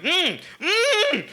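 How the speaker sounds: high, rising wordless "mm" of recognition; excited closed-mouth "mm, MM!"; excited pointing hum. Retold or imitated. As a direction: hum it urgently, climbing way up. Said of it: "doing the fucking Leo DiCaprio thing".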